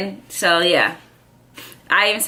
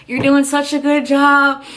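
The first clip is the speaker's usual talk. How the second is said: imitating medic; 6 semitones higher, 4 dB louder than usual. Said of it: "He's like".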